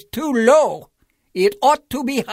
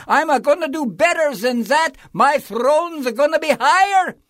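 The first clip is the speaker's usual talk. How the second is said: bellowing King Yertle; 10 semitones higher, 4 dB louder than usual. A narrator's reading. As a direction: bray your greatness at the turtle below. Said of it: "he bellowed and brayed".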